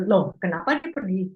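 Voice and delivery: "Loh, kenapa" with a falling surprised tune; surprised question. Shown as a demonstration. Teacher demonstrating loh as surprise. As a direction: react startled that he left. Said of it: "mengindikasikan kaget".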